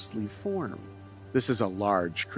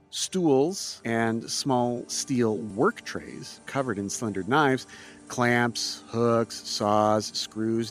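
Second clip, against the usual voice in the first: game master narration. A narrator's reading. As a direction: set the scene for the players. GM scene description.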